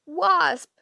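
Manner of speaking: high, loud call of a name. A narrator's reading. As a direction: call the driver sharply to attention. Sister calls sharply to driver.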